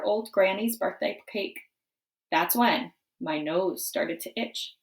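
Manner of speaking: wolf narrator. Acted. Wolf narrates his story.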